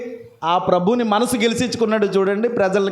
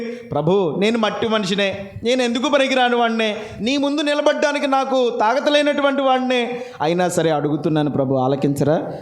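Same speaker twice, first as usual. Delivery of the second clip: humble plea. Retold or imitated. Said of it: "రెండోసారి వెళ్ళి".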